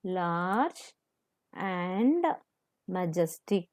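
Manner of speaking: soft, slow word by word; quiet dictation pace. Shown as a demonstration. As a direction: dictate each word for note taking. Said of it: "Children, note down the meaning".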